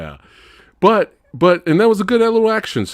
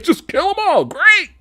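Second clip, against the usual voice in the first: gleeful uncle. Retold or imitated. Uncle cheering the hero's plan, high gleeful shout. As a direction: shriek the approval with manic glee. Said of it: "he's like".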